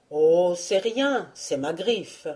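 slow, teasing donkey; a hint of a cheeky donkey; jovial, mocking. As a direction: toss it back with a joker's grin. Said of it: "avec cet air jovial et fumiste".

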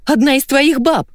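high shrieked insult; yelling. Acted. Jealous wife yelling at husband on phone, high shriek. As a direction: shriek it at him. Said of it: "заорала Наташа".

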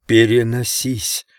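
plain reading voice

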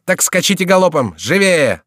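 impatient call to speed up; urging command. A narrator's reading. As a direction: drive the laggard on. Chicot spurring the laggard on.

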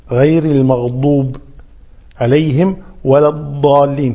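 heavy d in المغضوب and long الضالين; dad. Shown as a demonstration. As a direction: recite الضالين with firm ض. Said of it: "كذلك الضاد وليس بالظ".

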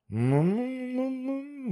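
long high hum, mulling it over; the manager hums to himself, pondering aloud; thoughtful hum. Acted. Manager musing before he answers, long thoughtful hum.

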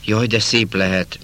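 slow, wistful sigh of wonder on de; dreamy longing. Acted. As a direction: let the longing pull the words out slowly. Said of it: "szeme elnedvesedett".

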